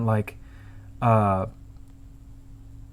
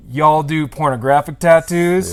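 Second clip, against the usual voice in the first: slow, louder Southern drawl; Southern accent; 5 dB louder than usual. Retold or imitated. Customer asking the tattooist, slow Southern accent. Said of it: "I'm giving him a, a Southern accent".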